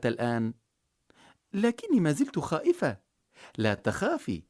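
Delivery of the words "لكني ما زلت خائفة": put-on higher, timid girl's voice; a frightened child, voice raised; scared little girl. A narrator's reading. Marjana afraid.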